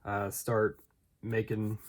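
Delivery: shivering from the cold. Real, not acted. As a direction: voice shaking with cold. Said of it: "sorry, I am freezing right now".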